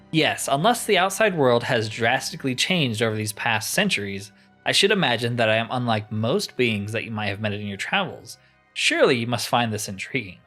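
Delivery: a touch of theatrical pomp; mildly grandiose game-character voice; lightly voiced grand enchanter. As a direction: read it as a self-important old master, lightly.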